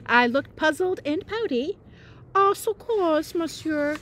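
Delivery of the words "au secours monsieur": breathed. Pretend. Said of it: "I breathed".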